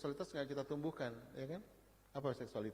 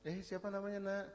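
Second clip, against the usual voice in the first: put-on raised, coaxing pitch for a child; neighbour greeting a child; 8 semitones higher than usual. Speaker asking new neighbour's child a name, high friendly voice. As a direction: ask a little one, pitched up. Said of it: "eh, tangga baru ya, keluarga muda".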